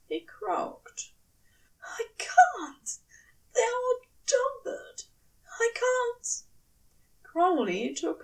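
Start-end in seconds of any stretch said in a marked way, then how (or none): 1.8-6.3 high, panicked crying out. A narrator's reading. Aziraphale cries out to Crowley, panicked. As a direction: cry out overwhelmed.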